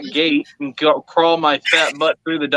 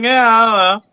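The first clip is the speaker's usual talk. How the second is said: put-on careless kid shrug; 4 semitones higher, 4 dB louder than usual. Daughter shrugging off password.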